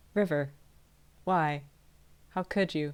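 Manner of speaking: utterly flat, calm deadpan, very hushed, low, soft. Voicing Igni questioning River after the explosion: calm deadpan delivery. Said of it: "blinks calmly at him and goes".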